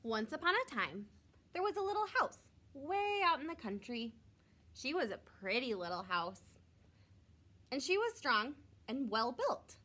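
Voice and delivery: gentle storybook narration; reading to children. A narrator's reading. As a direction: read it like a bedtime story for kids.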